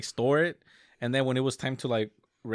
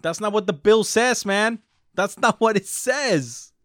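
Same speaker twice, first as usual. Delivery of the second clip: quoting an angry rant; 2 semitones higher, 4 dB louder than usual. Retold or imitated. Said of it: "Ron Perlman, he said".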